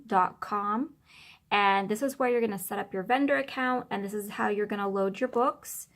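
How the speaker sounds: muffled voice from behind the phone. Real, not acted. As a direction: talk muffled and a bit distant. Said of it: "apologize if my voice is a little bit muffled".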